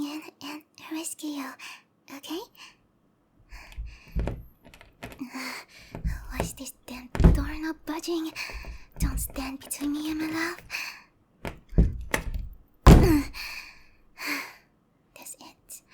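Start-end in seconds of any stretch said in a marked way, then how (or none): 6.3-10.6 loud, frustrated straining; exasperated outburst. Acted. Rescuer fighting a stuck door to reach darling, exasperated outburst. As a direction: burst out at the stubborn door.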